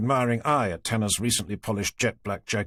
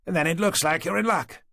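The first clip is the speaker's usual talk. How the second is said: mildly pleased exclamation, a bit higher; old man revealing who he is, mildly exclaiming; 7 semitones higher than usual. A narrator's reading. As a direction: brighten up, pleased to help. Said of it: "the man exclaimed".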